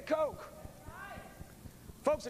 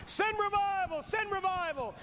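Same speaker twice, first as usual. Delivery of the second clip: higher pleading cry for revival; imitating a praying grandma; 8 semitones higher than usual. Preacher voicing praying grandmas, higher pleading. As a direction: plead it up high. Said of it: "poured out their hearts to God".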